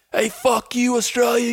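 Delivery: high-pitched, mocking yell.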